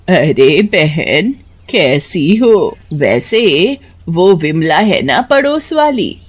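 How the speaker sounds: slow, chatty neighbor woman; gossiping neighbor. Acted. Neighbor woman telling the grandmother about a baba, slow gossip. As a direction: lean in and gossip, slowly.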